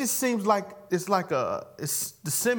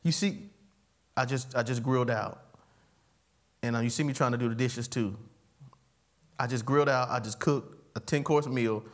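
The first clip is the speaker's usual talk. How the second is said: dramatic complaint; 7 semitones lower than usual. Retold or imitated. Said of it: "I'm being dramatic".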